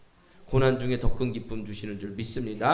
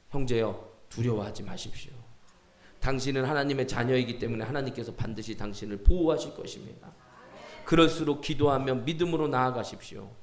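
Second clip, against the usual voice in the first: gentle exhortation; 2 semitones lower than usual. Retold or imitated. Pastor reassuring a believer facing hardship, gentle exhortation. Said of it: "제가 그분에게 권면했어요".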